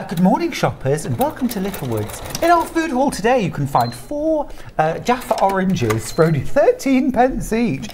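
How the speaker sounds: lightly voiced tannoy announcer; a hint of a shop announcer reading offers; store announcer. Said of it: "do the in-store announcements".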